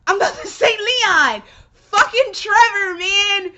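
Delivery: real frustrated laugh-yell; exasperated laughing outburst. Real, not acted. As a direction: burst out laughing at your own slip. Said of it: "I can't get my shit together".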